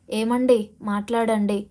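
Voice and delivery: a wife begging an unmoving husband to wake, understated shout; pleading cry to her husband. Acted. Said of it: "అంటూ గట్టిగా అరవసాగింది".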